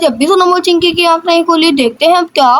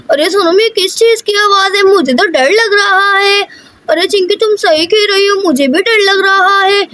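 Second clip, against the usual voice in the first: put-on higher storybook child voice, mildly uneasy; lightly voiced scared girls; 5 semitones higher than usual. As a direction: play little girls with a touch of fear. Two girls scared by noise. (हल्की डरी बच्ची की आवाज़)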